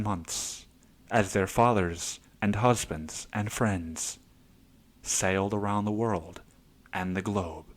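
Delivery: hushed, lightly done documentary narration; Tilda Swinton narrating. Retold or imitated. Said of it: "Tilda Swinton comes in, and she's like".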